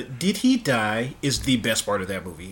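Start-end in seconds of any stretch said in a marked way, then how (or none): 0.0-1.1 slow, drawn-out villain taunt; quoting the villain. Retold or imitated. To co-host, savoring the villain's slow mocking line. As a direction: drag out the taunt like the movie villain.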